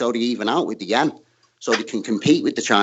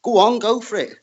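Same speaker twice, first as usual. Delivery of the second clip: mock government announcer; 8 semitones higher than usual. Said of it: "release us all and go".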